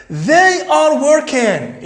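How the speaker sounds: very slow, loud and high; slow loud reading. Shown as a demonstration. Teacher reads the sentence out for pupils, slow and loud. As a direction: stretch every word for the class. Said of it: "teacher reads loudly".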